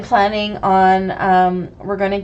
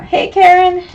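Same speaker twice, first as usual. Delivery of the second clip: husky cold-roughened greeting; hoarse and husky, sick with a cold; sexy voice; 9 semitones higher, 7 dB louder than usual. Real, not acted. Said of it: "You like my sexy voice?".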